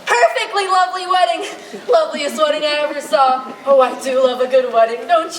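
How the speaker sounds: laughing, gushing guest. Acted. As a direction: gush between laughs.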